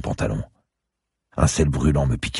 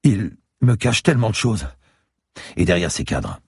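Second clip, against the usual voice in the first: put-on high, pleading old lady; distraught old woman; 7 semitones higher than usual. A narrator's reading. Old lady confiding her husband's secrets, distraught. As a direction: voice an anxious old woman, pitched up.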